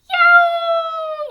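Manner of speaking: sudden high yell of alarm. A narrator's reading. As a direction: let out a loud yelp. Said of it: "yelled Orinoco".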